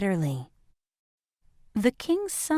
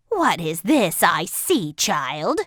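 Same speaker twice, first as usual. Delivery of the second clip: astonished; 2 semitones lower than usual. A narrator's reading. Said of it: "asked the astonished widow".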